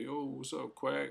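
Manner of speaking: voicing Jeremy. Narrator voicing Jeremy greeting him, high and loud. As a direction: pop it up high and loud like an excited friend.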